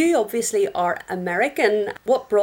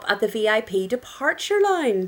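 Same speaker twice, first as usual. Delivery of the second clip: lively, polished show welcome; lightly announced host intro; podcast intro; 2 semitones higher, 4 dB louder than usual. Acted. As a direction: welcome listeners and introduce the guest.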